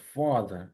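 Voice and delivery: ফাদার opened with F, ending "-da" without R; careful model "fa-da" for ফাদার; silent final R. Shown as a demonstration. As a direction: drop the last R of ফাদার. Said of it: "আর এর আরটা দেখা যাচ্ছে".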